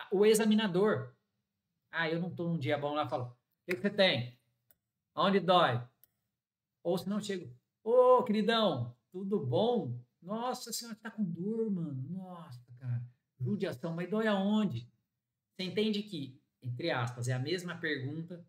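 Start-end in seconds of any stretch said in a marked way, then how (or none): 3.3-5.9 blunt, a bit louder, annoyed; curt grumpy dentist. Shown as a demonstration. Grumpy examiner snapping at the patient, curt. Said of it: "com entonação diferente". 7.8-14.9 overly friendly dentist. Shown as a demonstration. Friendly examiner greeting the patient, chummy and sympathetic. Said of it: "com entonação diferente".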